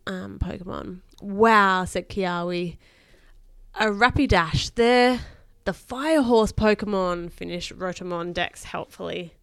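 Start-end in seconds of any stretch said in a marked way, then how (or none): 1.2-9.3 put-on lively read-aloud to a child; expressive bedtime story reading. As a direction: read a children's adventure aloud with emphatic key words.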